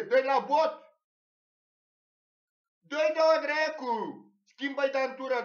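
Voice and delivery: high, loud ringside bellowing; imitating a father screaming encouragement; retold cheering yell. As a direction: keep hollering blows at the fighter. Father keeps urging the beating.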